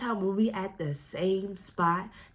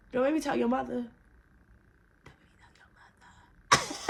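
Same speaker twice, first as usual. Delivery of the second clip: hushed threat; 2 semitones higher than usual. Retold or imitated. Mock threat repeated, whispered second time.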